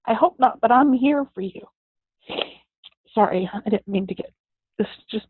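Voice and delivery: fighting back real tears while telling it; choked up, trying not to cry; real tears welling. Real, not acted. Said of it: "really wasn't gonna cry".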